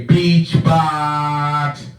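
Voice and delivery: tongue held with fingers; holding tongue. Shown as a demonstration. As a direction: say it while holding your tongue. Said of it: "hold your tongue and say".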